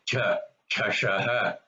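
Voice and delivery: "Chashaha" with a puff of air on the first sound; Mahaprana. Shown as a demonstration. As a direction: breathe out hard on "Cha". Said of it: "which is Mahaprana".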